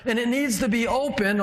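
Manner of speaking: lightly voiced God. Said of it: "God's looking around and saying".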